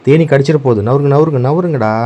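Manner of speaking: high, loud warning to the dogs; urgent shooing. Real, not acted. Warning the dogs that the bees will sting, loud urgent call. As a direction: get them away from the hive now.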